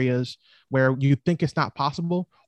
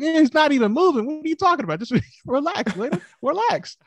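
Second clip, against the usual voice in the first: mock exasperated; 13 semitones higher than usual. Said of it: "I'm like".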